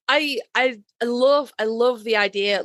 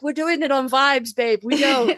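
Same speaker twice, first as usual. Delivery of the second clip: breezy dismissive; 3 semitones higher, slower than usual. Retold or imitated. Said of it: "and I'm like".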